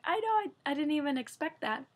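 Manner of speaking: breathless delighted squeal; giddy excitement. Retold or imitated. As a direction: squeal it out in disbelief. Giddy reply about her score.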